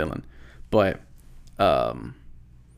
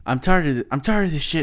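mock fed-up complaint, pitched up; retold venting; 5 semitones higher than usual. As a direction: imitate a man venting his grievance. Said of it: "he's just venting".

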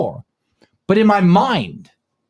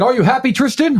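mock journalist; 8 semitones higher than usual. Journalist's question, retold.

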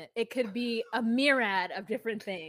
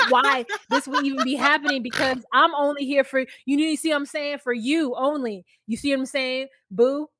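louder, fast, higher pleading smooth talker; mock smooth talker; 4 semitones higher, 8 dB louder, faster than usual. Host imitating the boyfriend sweet-talking his girlfriend, hammed-up and louder. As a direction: ham up a sweet-talking liar. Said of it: "he's like".

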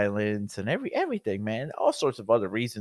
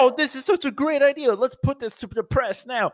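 excited pitch; 5 dB louder than usual. Retold or imitated. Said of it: "We're like".

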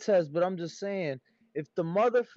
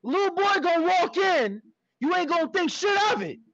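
lightly voiced Wire character; quoting a TV gangster, pitched up; movie gangster quote; 9 semitones higher than usual. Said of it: "is that a scene from a movie?".

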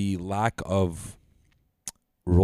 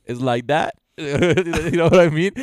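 lightly imitated Southern accent, pitched up; Perk's southern accent; 6 semitones higher, 5 dB louder, slower than usual. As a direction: call out in a hint of a Southern drawl. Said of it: "with his, like, a southern accent".

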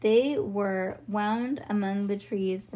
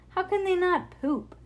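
put-on amazed child voice; 9 semitones higher, 4 dB louder than usual. Harlan's amazed question.

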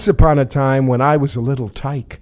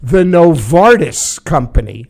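put-on light New York accent, a random guy. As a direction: talk like an ordinary New Yorker, lightly. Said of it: "Whose voice are you right now?".

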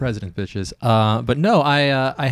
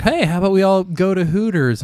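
frat bro voice; 10 semitones higher than usual. Retold or imitated. Frat guys voiced in retelling.

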